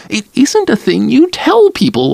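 put-on a mild wail of old hurt. A narrator's reading. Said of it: "Lila's mother wailed".

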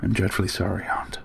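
very soft, meek apology; penitent. A narrator's reading. Nephew apologises to his stern aunt, penitent. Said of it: "I looked penitently down".

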